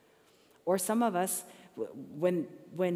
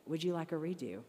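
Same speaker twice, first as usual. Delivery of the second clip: gentle offer; 4 dB quieter than usual. Pretend. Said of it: "what God says to me".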